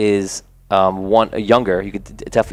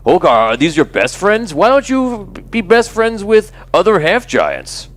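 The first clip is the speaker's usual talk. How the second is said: higher mocking teen voice, slowing at the end; taunting bully; 10 semitones higher, 3 dB louder than usual. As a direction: needle him with fake concern. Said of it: "He goes".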